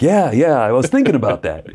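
high, over-keen mock agreement; bluffing agreement. Penitent bluffing the priest in confession, eager agreement.

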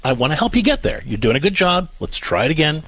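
lightly acted patient parent; supportive, unhurried coaching tone; encouraging, not mean. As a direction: coax a child along kindly. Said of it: "you're not being mean through this".

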